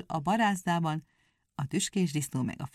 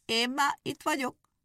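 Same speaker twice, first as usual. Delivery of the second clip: called out; 7 semitones higher than usual. A narrator's reading. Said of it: "elébe kiáltott".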